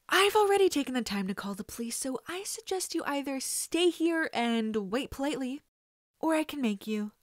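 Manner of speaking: cocky threat. Acted. The boy coolly threatening the kidnapper, cocky. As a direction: sound sure of yourself despite the fear.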